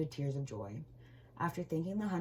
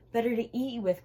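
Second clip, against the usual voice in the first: wolf growl; 8 semitones higher, 7 dB louder than usual. Acted. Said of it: "growled the wolf".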